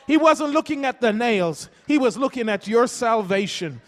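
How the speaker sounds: fervent pulpit cadence with repeated lines; preaching. Acted. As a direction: build it up like a pastor's closing climax. Building sermon climax.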